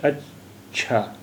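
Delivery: अच्छा spoken very slowly, the च held and doubled; doubled ch sound. Shown as a demonstration. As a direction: stretch out अच्छा so you hear the ch twice. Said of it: "ये चा की आवाज़ दो बार आ रही है".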